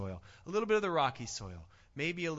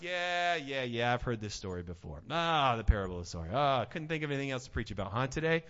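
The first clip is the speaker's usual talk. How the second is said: bored churchgoer; 3 semitones lower, faster than usual. Pretend. Bored churchgoer voiced mockingly.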